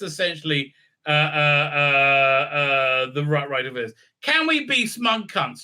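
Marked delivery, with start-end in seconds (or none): 4.2-5.6 higher, slow, drawn-out rallying question; mock slogan. Reviewer mocks the smug cast, mock slogan. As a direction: pose it like a mock campaign chant. Mocking slogan about the characters.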